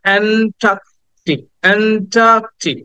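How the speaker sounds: "অ্যান্টার্কটিক" as "aen-TAAK-tik", slowly; "অ্যান্টার্কটিক" with open "ae" and no r after the t; clear "ae" opening. Shown as a demonstration. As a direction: model "অ্যান্টার্কটিক" syllable by syllable, "ae" first. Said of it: "এইটাকে আমরা উচ্চারণ করবো".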